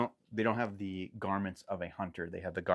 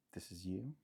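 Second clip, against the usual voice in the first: whisper; 11 dB quieter than usual. Acted. GM reveals a secret in a whisper.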